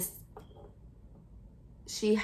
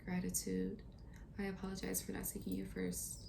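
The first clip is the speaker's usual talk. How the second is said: soft, hushed prayer to God; quiet prayer; 8 dB quieter than usual. Real, not acted. Reader pauses the reading to pray to God, softly. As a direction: murmur a humble prayer of thanks. Prays aloud mid-reading.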